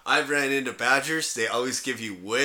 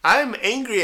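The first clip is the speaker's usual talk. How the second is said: much higher, silly cat voice with a laugh; mock squeaky cat; 10 semitones higher, slower than usual. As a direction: lightly voice the caged cat. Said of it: "and he goes".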